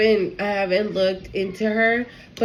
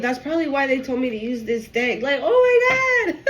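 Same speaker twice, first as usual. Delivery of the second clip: emotional, high voice breaking into a cry with a laugh; real tears spilling over; sobbing laughter through joy; 4 semitones higher than usual. Real, not acted. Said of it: "so freaking emotional".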